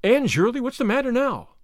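alarmed at the sudden commotion; alarmed call. A narrator's reading. Marilla alarmed by Anne's shriek.

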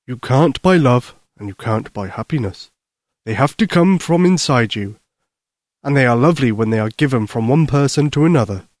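lightly voiced, tender Santa; kindly Santa Claus. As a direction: explain gently to a child as Santa.

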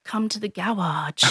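put-on small, hushed toddler voice; quiet, timid little-kid summons; scared child. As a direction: softly lure them along like a frightened kid. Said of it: "like, really scared".

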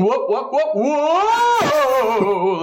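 high, rising clownish whoa; comic whoa. Retold or imitated. Jonathan slips in the sketch, clownish high whoa. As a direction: yelp it like a slapstick clown.

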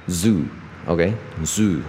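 "Zoo" with the vowel held open to the end. Shown as a demonstration. Teacher modelling an O ending, held "Zoo". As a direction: say "Zoo", keep the final oo, lips unclosed. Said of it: "我们O结尾，所以就是保持一个O".

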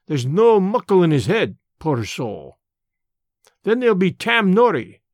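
put-on an old border radical holding forth in broad Scots; lightly voiced Scots elder, earnest and proud; Scots labour man. Old Amos lectures Mister Brand on the war, lightly voiced Scots.

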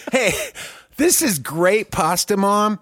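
high, loud mock Italian accent; hammed-up Italian accent; huge put-on accent. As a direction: burst into a cartoon Italian accent on the food word. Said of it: "put this huge accent on the one word".

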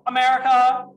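called out high and loud; hyped-up shout. Shown as a demonstration. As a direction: belt it like a rally cry.

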